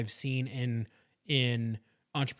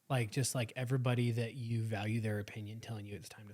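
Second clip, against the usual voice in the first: hushed sympathy; 2 semitones lower, 7 dB quieter than usual. Real, not acted. Sympathizing with friend's hardship.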